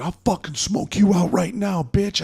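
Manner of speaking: high-pitched mock menace; imitated angry threat. Skinny kid getting in his face, high imitated threatening rant.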